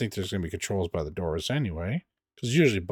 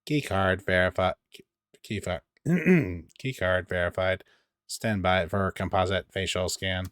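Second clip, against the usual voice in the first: metallic voice. Retold or imitated. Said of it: "hear a synthesized voice say".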